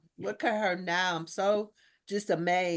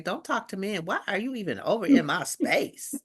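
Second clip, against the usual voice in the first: mock attitude. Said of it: "she had an attitude like".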